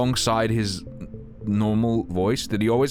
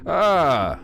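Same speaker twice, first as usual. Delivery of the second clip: high, drawn-out "ah"; startled cry; 6 semitones higher, 4 dB louder than usual. Real, not acted. Streamer reacting to the game's reveal, startled cry. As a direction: cry out, pitch falling away.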